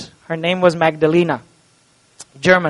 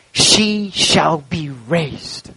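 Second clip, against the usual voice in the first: slow, drawn-out words with a rising end; a grieving father's slow hope; weeping father; much slower than usual. A narrator's reading. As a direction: hold back tears and lift the last word. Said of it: "he began to weep bitterly".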